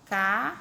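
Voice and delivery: "café" split in two, ca... fé; stress on last syllable. Shown as a demonstration. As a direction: sound out "café" with a pause before "fé". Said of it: "a que tem a última mais forte".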